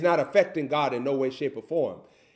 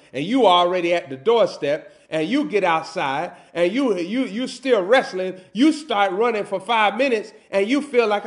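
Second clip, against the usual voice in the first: building, higher and louder sermon delivery; forceful preaching; 6 semitones higher, 7 dB louder than usual. Acted. Preacher telling the congregation about the unwanted jog, building force. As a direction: press the story forward with mounting force.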